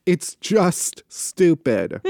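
slow deadpan quote. Retold or imitated. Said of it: "Saying, quote".

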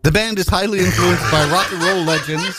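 ad read. Acted. Reads a gig ad.

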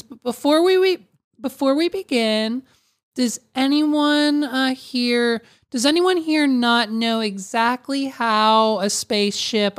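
imitating a politician opening a speech; mock podium address. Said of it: "she goes up to the podium".

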